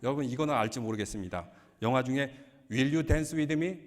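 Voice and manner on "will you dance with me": drawn out. Retold or imitated. Quoting a film title in English.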